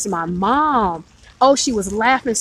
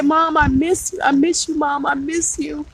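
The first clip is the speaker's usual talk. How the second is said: retold crying; 6 semitones higher than usual. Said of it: "I started crying".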